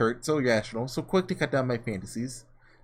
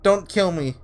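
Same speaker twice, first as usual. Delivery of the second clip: terrified pleading; 4 semitones higher, slower than usual. Acted. Morgana begs the attacker.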